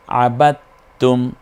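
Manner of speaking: আবাত্তুম with the d silent, doubled t; straight into t. Shown as a demonstration. Teacher shows the silent dal, আবাত্তুম slow with doubled t. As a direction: go straight onto a held tt in আবাত্তুম. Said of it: "ওই তায়ের দিকে চলে যাবে সরাসরি".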